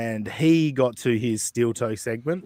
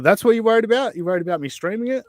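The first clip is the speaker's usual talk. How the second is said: incredulous; 8 semitones higher, 4 dB louder, faster than usual. Retold or imitated. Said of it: "And I thought".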